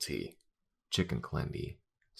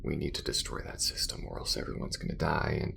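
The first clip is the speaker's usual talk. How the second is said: weary, bitter venting with long pauses; disillusioned space crewmate. Acted. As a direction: let the hurt out in halting bursts. Acted character vents about betrayal.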